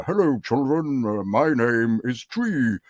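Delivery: put-on slow, sing-out children's TV voice; kids' presenter. Actor auditioning as a tree for children, kids' presenter. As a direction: draw it out for an audience of children. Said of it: "it was a kid's thing".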